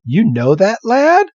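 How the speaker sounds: high, put-on old man's voice; lightly voiced villager, pitched well up; voicing Mister Fuji. Fuji asks Red about the lad, in a high put-on voice. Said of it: "He's like".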